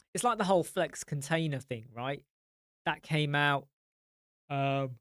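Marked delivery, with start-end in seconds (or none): 4.5-5.0 mid-yawn, drawn out. Real, not acted. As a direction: yawn through the word. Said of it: "I am yawning a lot".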